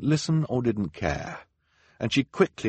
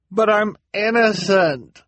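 much higher, loud, slow pleading cry; desperate cry; 14 semitones higher, 8 dB louder, slower than usual. A narrator's reading. Accused man on the platform crying out his innocence, high plea. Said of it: "the man on the platform cried".

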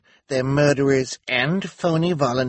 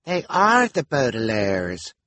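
higher, louder, drawn-out cry of recognition; astonished exclamation; 5 semitones higher, 5 dB louder than usual. A narrator's reading. Nurse recognizing the children in the crowd, astonished. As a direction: exclaim it slowly in open astonishment. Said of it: "a nurse exclaimed in astonishment".

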